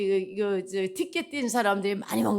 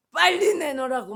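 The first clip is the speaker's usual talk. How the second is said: mock demand; 5 semitones higher, 5 dB louder than usual. Policeman's demand quoted.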